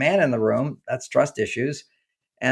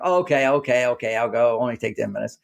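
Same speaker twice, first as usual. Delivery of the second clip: mock grumble; 2 semitones lower than usual. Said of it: "Finally, I grumble".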